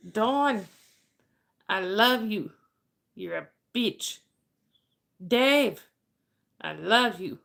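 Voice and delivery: teasing retold declarations, a pause after each phrase; imitating Papa. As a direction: quote him with names and love stressed, insults dropping. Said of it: "Papa just goes".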